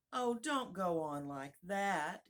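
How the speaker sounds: loud, drawn-out plea; despairing cry. Acted. The poor queen begs Alice to stop, despairing. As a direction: cry out in helpless distress. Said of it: "cried the poor queen, wringing her hands in despair".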